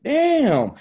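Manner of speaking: high, loud drawn-out damn; dismayed damn. Retold or imitated. Told everyone quit, a high loud damn. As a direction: let the damn soar up in dismay. Reacting to staff quitting.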